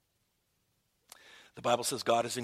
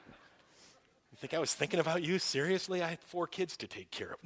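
lightly voiced sarcastic wife, a bit higher; mock wife; 4 semitones higher than usual. Wife teasing her husband about the tears, mock sarcastic. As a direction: play the wife scoffing at the idea. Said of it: "Tammy would ... kinda say".

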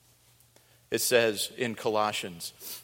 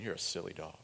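teasing the dog; 5 semitones lower, 13 dB quieter, faster than usual. Retold or imitated. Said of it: "I laugh at her as well".

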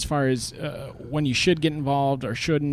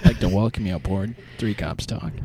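lightly voiced airline captain announcement; a hint of a cockpit PA welcome; pilot voice. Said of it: "in the pilot voice".

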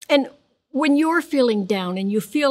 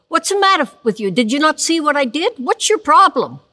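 fast, higher, louder scolding; exasperated parent scolding; 5 semitones higher, 3 dB louder than usual. Pretend. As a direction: snap at him like a fed-up parent. Imagined parent scolding a child.

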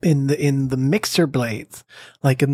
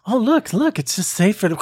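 mock high voice; 6 semitones higher than usual.

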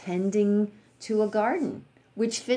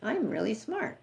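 higher, self-satisfied preen over his own books; mock smug pride; 5 semitones higher than usual. Monk admiring his bookcase full of books, mock smug. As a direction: play the monk admiring himself, lightly smug. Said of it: "he'll look at the bookcase and go".

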